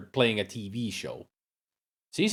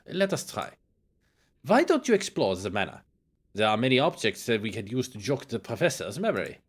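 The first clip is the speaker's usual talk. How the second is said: lightly voiced German-accented doctor, lowered; German-accented investigator; 3 dB quieter than usual. Doctor planning to jog professor's memory, German-accented. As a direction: confer discreetly in a German accent.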